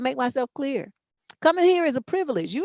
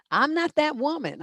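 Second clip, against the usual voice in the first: ordinary delivery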